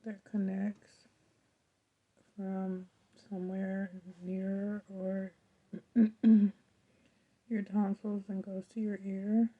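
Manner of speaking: talking through throat pain; sore throat voice. Real, not acted. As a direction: speak carefully around a painful throat. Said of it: "Talking after a while starts to hurt".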